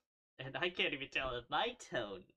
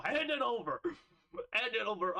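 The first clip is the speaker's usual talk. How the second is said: much higher, louder mock pirate demand; pirate shout; 9 semitones higher, 5 dB louder than usual. Pirate robbing a hermit crab for its shell, shouting. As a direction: yell it like a greedy pirate mugging a crab.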